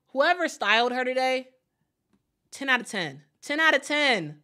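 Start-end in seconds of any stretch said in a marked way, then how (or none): 3.4-4.4 excited verdict on the outfit; emphatic praise. Real, not acted. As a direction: really sell the ten out of ten. Repeats the styling praise emphatically.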